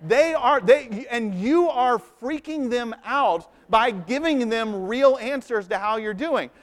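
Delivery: high, slow, insistent no, no; urgent correction. Retold or imitated. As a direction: press it home, pitch up and draw it out. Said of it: "I'm like".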